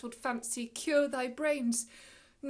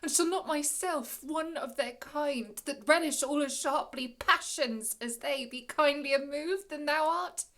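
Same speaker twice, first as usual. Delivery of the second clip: louder, rising rhetorical question; indignant challenge; 3 semitones higher, 4 dB louder than usual. Acted. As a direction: press the question with stung indignation. Prospero challenges the spirit with indignation.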